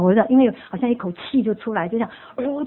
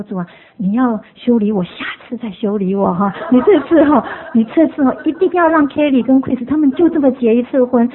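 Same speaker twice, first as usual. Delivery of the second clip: pleading prayer; 3 dB louder than usual. Retold or imitated.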